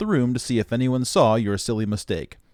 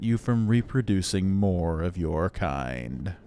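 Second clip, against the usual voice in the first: exasperated but measured robot disdain; condescending superior machine. Acted. Robot catches organic in a restricted area, haughtily annoyed. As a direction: lecture a dim organic, drawing out the last words.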